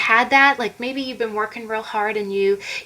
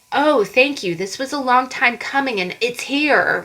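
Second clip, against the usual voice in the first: louder, satisfied thank you, finally; a knowing, relieved thanks for time served; long-awaited thanks; 3 semitones higher, 4 dB louder than usual. Retold or imitated. Someone finally rewarded after long effort, knowing and pleased. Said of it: "No, it's like".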